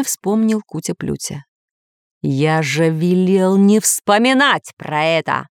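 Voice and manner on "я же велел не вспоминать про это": slow, mildly angry scolding. Acted. Master scolding the parrot, slow and mildly angry. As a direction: scold him, understated. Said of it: "Не на шутку разозлился".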